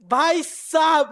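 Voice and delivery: laughing while retelling the star's reaction. Real, not acted. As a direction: giggle as you remember the moment. Laughing while recalling Kohli's laugh.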